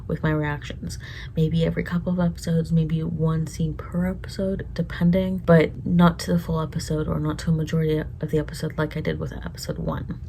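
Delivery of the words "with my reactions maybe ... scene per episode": soft whispered side note; whispered aside. Real, not acted. Viewer adding a hushed aside about uploads.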